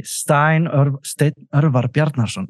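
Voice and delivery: "Steinn Örvar Bjarnason" in native pronunciation; native name pronunciation. Shown as a demonstration. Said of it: "see how hard it's gonna be".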